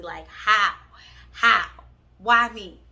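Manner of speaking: loud, punched-out questions; exasperated lament. Retold or imitated. Girlfriend embarrassed in front of everybody, exasperated lament. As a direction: plead in loud disbelief, one burst at a time.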